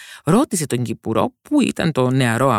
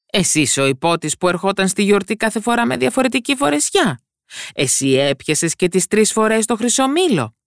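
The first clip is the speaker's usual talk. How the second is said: astonished king; 8 semitones higher than usual. A narrator's reading. King questions the boy.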